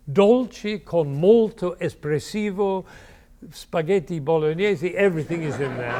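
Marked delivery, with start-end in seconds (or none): 0.1-5.0 mock grand Italian. Shown as a demonstration. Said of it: "Then he says".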